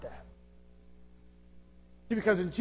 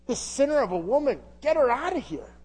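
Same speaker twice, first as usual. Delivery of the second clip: incensed disciples; 5 semitones higher than usual. Acted. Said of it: "disciples are incensed".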